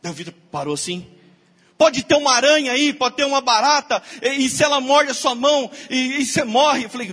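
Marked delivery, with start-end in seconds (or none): 1.8-6.8 higher, louder worried rush; a hint of fearful alarm; panicky warning. Wife warning about spiders and roaches, louder and worried.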